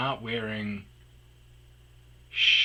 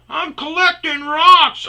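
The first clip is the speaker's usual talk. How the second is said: much higher and slower, daft; slow innocent excuse; 14 dB louder, slower than usual. Retold or imitated. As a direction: say it like a dopey liar. Man repeats excuse.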